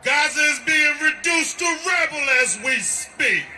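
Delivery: rally speech. Real, not acted. Shouted rally statement.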